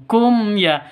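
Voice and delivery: KUM YA with clear m going straight into ya; joined directly. Shown as a demonstration. Teacher showing izhar syafawi, KUM YA clear and joined. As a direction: say KUM YA connected, both letters clear.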